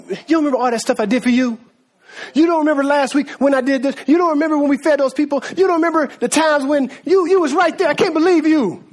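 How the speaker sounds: mock indignant scolding, pitch rising as it goes; hurt, incredulous reproach; accusing. Preacher voices Jesus scolding Mary and Martha, accusing. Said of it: "he didn't come at her like that".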